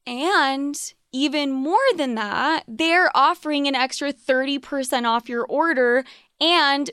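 upbeat sponsor read, promo code slowed down. Acted. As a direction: sell it like a podcast ad.

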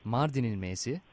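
letter by letter, naming a town for each; spelling it out. Shown as a demonstration. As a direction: spell it out like over a bad phone line. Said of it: "kodluyorum şimdi harfleri".

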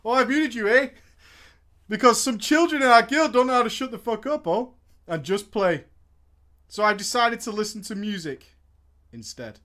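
lightly voiced dopey oaf; a hint of a dim loudmouth; dopey cartoon bellow. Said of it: "I can't do it".

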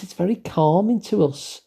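normal talking voice

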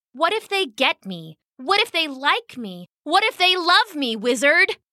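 from bold to blazing; building triumph. Acted.

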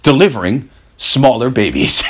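retold line in a calm, matter-of-fact tone; calm, cool delivery. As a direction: imitate an unruffled company man. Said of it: "looked her right in the eye and calmly, coolly".

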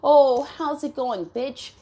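high, sing-song imitation of a pushy texter; mocking impression of the stalker; mock greeting. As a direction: mimic the stalker's fake-friendly hello. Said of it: "being like".

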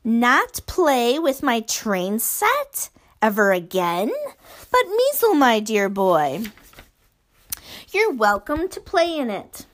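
false sweetness hiding menace; sinister giant. Acted. Basil sweetly offering Measle his train set.

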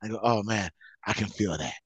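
a lightly played sloppy drunk; getting drunker. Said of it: "that's me as a drunk".

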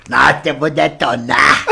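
slow, laughing gloat; drawn-out laughing brag; laughing boast. Retold or imitated. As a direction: crow it out while cracking up. Cocky boast in retold story.

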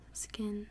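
"Scintilla" the American way, L sounded; Americanized "Scintilla" with a plain L; Americanized pronunciation. Shown as a demonstration. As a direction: say "Scintilla" as sin-TILL-a. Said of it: "very Americanized".

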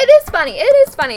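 loud, high, insistent; high-pitched, insistent concession; emphatic agreement. Real, not acted. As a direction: concede it quickly and forcefully, twice. Hurriedly conceding to the friend.

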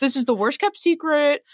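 put-on quoting a friend in a light British accent; a hint of a British accent; repeating the line in a teasing British accent; mock British accent. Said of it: "All this is in a British accent".

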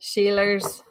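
Aussie "Sheilers" with a hard R at the end; mock Aussie, leaning on the R in "Sheilers"; attempted Aussie accent. Shown as a demonstration. Showing how they say R's all the time, attempted Aussie accent. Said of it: "They say ours all the time".

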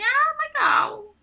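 high, slow and drawn-out "Ah, legal" with a laugh; a hammed-up, laughing "that's nice"; mock polite reply. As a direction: fake politeness, laughing through it. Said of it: "Não falaram nada, assim".

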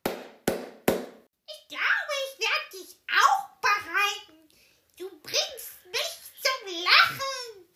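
high, loud, laughing giant; the giant mocks the knight; mocking giant. A narrator's reading. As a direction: scoff through your laughter. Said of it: "lachte die Riesin".

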